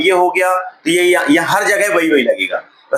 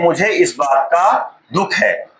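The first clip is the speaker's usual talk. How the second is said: correct phrase; slower than usual. Shown as a demonstration. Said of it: "क्या बोल सकते हैं?".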